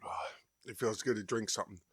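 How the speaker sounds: breathy relieved whisper. Real, not acted. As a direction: sigh it out in relief. Relief after sip.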